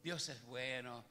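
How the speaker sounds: mild mock-Mexican lilt, slowly; imitating a Mexican saying God is good; soft Mexican imitation. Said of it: "el mexicano más así".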